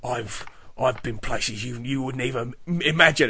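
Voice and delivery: mock brooding hero line; brooding Statham. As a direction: murmur it like a weary action hero. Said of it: "And then he'll say".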